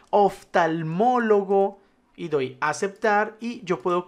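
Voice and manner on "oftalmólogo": slow, drawn-out syllables; typing aloud. Shown as a demonstration. Teacher filling in a list for learners, slow typing-along voice. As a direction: stretch the word out as if typing it.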